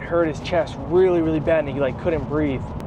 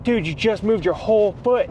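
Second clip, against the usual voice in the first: excited; 5 semitones higher than usual. Retold or imitated. Retold amazement at foot moving.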